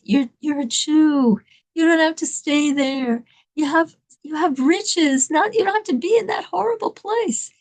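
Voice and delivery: acted rabbi's earnest appeal; urgent pleading. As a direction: plead with him, stretching key words.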